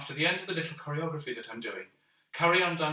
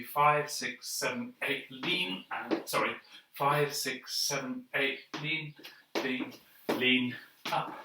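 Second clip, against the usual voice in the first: counting while dancing; dancing while talking; slower than usual. Real, not acted. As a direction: call the beat mid-dance. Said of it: "I can't talk and dance at the same time".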